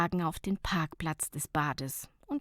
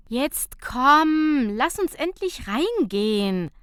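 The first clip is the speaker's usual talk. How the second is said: urging; 6 semitones higher, 6 dB louder, slower than usual. Acted. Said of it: "mahnte Nicola zur Eile".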